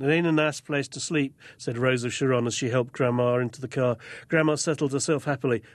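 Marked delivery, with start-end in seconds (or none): 0.0-1.3 put-on Okie accent. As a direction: read Rose of Sharon in a lightly put-on Okie accent. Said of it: "excuse my accent".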